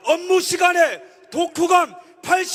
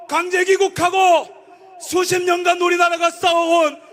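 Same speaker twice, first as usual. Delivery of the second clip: fiery political rally speech; roaring rallying speech; 3 semitones higher than usual. Acted. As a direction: shout it to the crowd.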